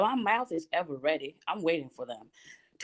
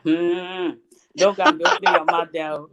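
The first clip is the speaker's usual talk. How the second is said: scolding mother; 2 semitones lower, 7 dB louder than usual. Retold or imitated. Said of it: "she's like".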